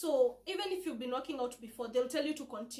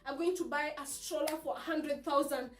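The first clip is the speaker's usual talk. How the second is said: excited mom-to-be; 3 semitones higher, 4 dB louder than usual. Retold or imitated. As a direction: play an overexcited new mother planning purchases. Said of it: "you know you're always excited".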